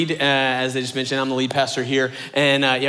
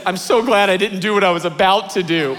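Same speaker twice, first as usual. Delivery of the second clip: giggling through the line; friend's wife relieved, giggling; laughing relief; 3 semitones higher than usual. Retold or imitated. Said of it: "And then she says".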